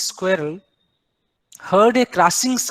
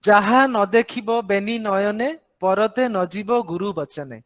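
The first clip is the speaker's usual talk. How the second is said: quick Odia proverb; much faster than usual. Shown as a demonstration. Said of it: "in Odia we say".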